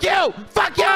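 high-pitched yelled curse; hammed-up angry squawk; mock outburst. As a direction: snap into a high, indignant yell. Mock outburst after monotone bit.

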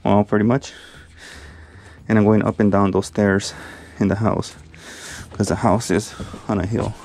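winded, talking in short bursts with pauses; out of breath. Real, not acted. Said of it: "I'm a little out of breath".

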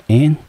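"n" said alone as the first syllable; syllable demo. Shown as a demonstration. Teacher breaking a word into syllables for students, syllable demo. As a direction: sound out "n" as one separate syllable. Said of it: "第一个音节念成n".

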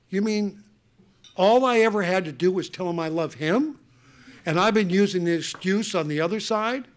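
as if it just dawned on him; amazed realization. Retold or imitated. Son realizing he only had to say it, amazed. Realizing how simple it was.

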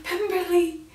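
whispered, slow melodramatic lament; hammed-up farewell to the estate; saying goodbye to Pemberley in mock sorrow, slowly.

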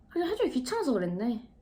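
mock needling customer, softly pitched accusation; retold needling. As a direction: imitate a customer's snide jab, kept soft. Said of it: "계속 이런 식으로 꼽을 주는". (손님 흉내 내며 작게 꼽 주는 말투)

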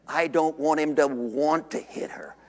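hushed, breathy whisper; earnest preacher whispering to the congregation. Real, not acted. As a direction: drop to a whisper as if sharing a secret. Confiding longing about his son.

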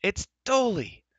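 very high, loud, drawn-out call; storyteller's full-voiced cry of recognition; excited cry. A narrator's reading. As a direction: sing out the name high and long, then drop. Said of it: "cried Taran".

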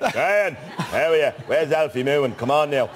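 a hint of a Dublin greeting, "Shane" in two syllables, slow; Dublin accent. Dublin relatives greeting him, lightly Irish accent. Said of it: "my name has two syllables".

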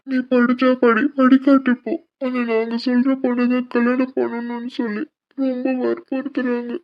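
begging her through tears; tearful pleading. Acted. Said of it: "இப்போ எதுக்கு அழுகுறீங்க". (அழுதபடி கெஞ்சல்)

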